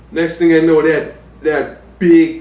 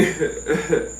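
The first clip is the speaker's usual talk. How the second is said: soft breathy chuckle; retold laughing; 6 dB quieter than usual. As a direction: chuckle quietly to yourself. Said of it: "I'm laughing".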